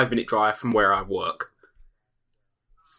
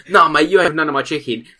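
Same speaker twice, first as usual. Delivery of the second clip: mock tough retort; 6 semitones higher, 7 dB louder than usual. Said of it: "I just went".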